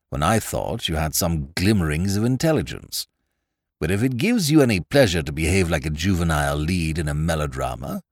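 low, languid contempt; cool sneering gentleman. Acted. Hargate's cool sneering reply.

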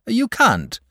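high, crowing and triumphant. A narrator's reading. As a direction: dragon refusing George, triumphant. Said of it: "said the dragon triumphantly".

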